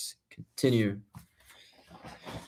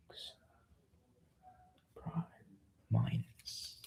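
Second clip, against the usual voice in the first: out of breath; 15 dB quieter, slower than usual. Real, not acted. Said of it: "I'm running out of breath".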